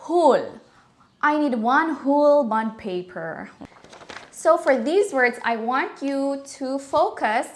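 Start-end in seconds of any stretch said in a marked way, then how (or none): 0.1-3.5 put-on Filipino accent, whole with a long U like hool; Filipino pronunciation. Teacher imitating how Filipinos say it, Filipino accent. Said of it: "the Filipinos would say".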